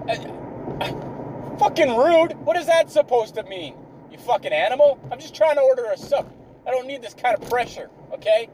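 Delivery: mock-offended rant, high and fast; hammed-up offended rant. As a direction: act hurt and furious, talking fast.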